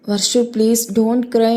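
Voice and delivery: gently begging her to stop crying; lightly voiced sorrowful husband; sad pleading. A narrator's reading. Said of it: "బాధగా చూస్తూ చెప్తాడు".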